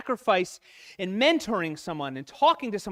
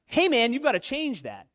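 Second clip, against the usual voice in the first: higher and louder, a blunt friend's mock rebuke; buddy calling you out; 5 semitones higher, 4 dB louder than usual. A guy imitating a friend calling him out, higher and louder. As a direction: play the straight-talking buddy, higher and louder. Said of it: "But getting called out".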